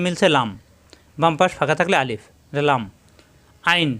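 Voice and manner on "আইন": আইন tightened in mid-throat; pharyngeal ayn. Shown as a demonstration. Teacher shows the letter again to learners, আইন pressed from the throat. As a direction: squeeze the throat to begin আইন. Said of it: "কণ্ঠনালীর মাঝখানে চাপ দিয়ে".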